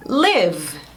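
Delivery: live with a buzzing v at the end; voiced v ending. Shown as a demonstration. Teacher drills the final V sound for students. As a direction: hold the v so the vocal cords vibrate. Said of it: "termina com som V".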